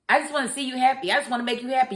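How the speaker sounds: quick, mocking whiny imitation. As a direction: parody him as naive and sappy. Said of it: "saying this stupid stuff like".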